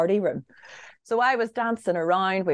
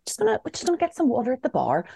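hurried aside; 7 semitones higher, faster than usual. Retold or imitated. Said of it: "he was just like".

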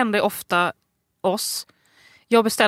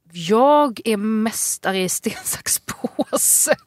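mock boast; much slower than usual. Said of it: "Så jag bara".

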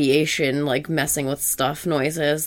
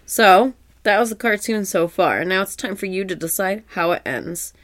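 bright TV announcer read; 3 semitones higher than usual. Retold or imitated. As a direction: sell it like a kids' show host.

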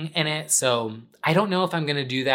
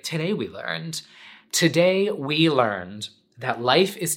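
mock sign-off lesson. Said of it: "I'd be like".

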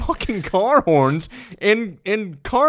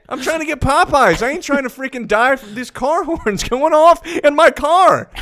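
annoyed rant; 7 semitones higher, 5 dB louder than usual. Retold or imitated. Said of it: "I'm like".

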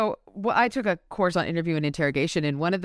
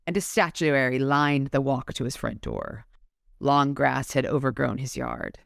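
measured, slightly lower narrator's read; story narration; 6 semitones lower than usual. A narrator's reading. Host reads the Gothic house description to listeners, measured narration. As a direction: read it out like an audiobook passage. Reads novel passage aloud.

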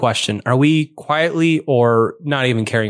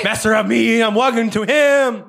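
high rat voice; 10 semitones higher than usual. Acted. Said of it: "And it goes".

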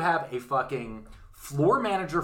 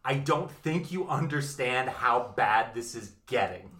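slow grave warning; slower than usual. Retold or imitated. Consuls warning young senators, slow grave tone. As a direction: spell it out patiently.

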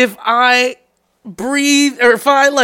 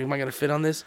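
low, hushed question; murmured so nobody else hears; whispering; 8 semitones lower, 13 dB quieter, faster than usual. Retold or imitated. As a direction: keep it very soft and discreet. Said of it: "You're, like, whispering".

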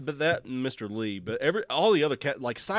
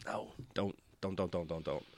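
pleading no; 7 semitones lower, 13 dB quieter than usual. Real, not acted. Begging them not to revive Lex.

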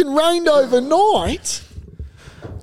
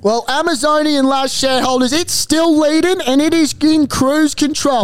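race caller. Acted. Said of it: "your race caller".

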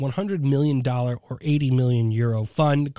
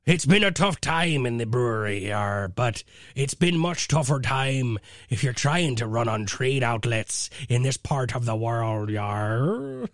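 full pirate; 3 semitones lower than usual. Acted. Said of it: "I'll just do it in full pirate".

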